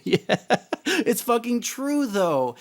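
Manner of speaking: real laugh running into high, drawn-out words; laughing agreement. Real, not acted. Streamer agreeing with a viewer's joke, laughing. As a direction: agree through a laugh, pitch climbing.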